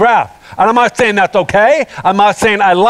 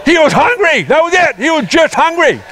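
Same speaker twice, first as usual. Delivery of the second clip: higher, punched-out preacher's point; preaching emphasis; 6 semitones higher than usual. Real, not acted. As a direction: hammer the point home.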